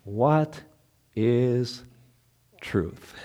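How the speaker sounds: slow, falling into a soft hush; mild voiced Pilate; Pilate's question. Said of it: "what will Pilate say".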